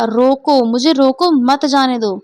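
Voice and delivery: रोको set apart, then मत जाने दो grouped; slow, deliberate break before मत जाने दो; phrased as stop me. Shown as a demonstration. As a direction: separate the plea रोको from मत जाने दो. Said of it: "इसका मतलब क्या हो गया".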